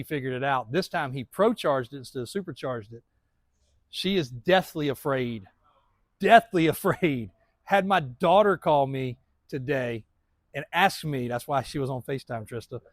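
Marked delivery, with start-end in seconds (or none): 6.2-7.3 slow, louder repeat with a chuckle inside; amused emphasis. Real, not acted. Man joking about his fiancée's fear, amused emphasis. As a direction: laugh mid-phrase while drawing it out.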